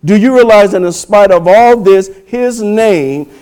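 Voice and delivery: strong, driving rhetorical build; forceful preaching. Acted. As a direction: press the question on the congregation, stretching the climax.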